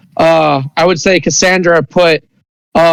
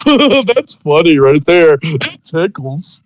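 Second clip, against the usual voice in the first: very slow, giggling little creature; drawn-out ticklish creature voice; slow tickled creature talking; slow giggly creature; much slower than usual. Acted. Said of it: "you hear".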